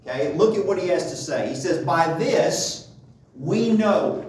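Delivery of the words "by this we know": "By this we know" set apart, with weight on "know"; pause, then lift "we know" out with emphasis. Retold or imitated. Preacher reading the verse to show the writer's point, emphasis on "know". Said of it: "he's emphasizing the word know".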